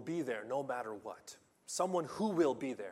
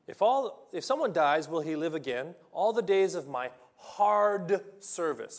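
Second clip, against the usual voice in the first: impassioned plea; 2 semitones higher, 7 dB louder than usual. Acted. Reading Job's plea aloud.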